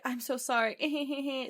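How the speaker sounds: high, drawn-out fake sobbing apology; mock crying. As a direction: whimper it in exaggerated fake tears. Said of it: "Starts crying again".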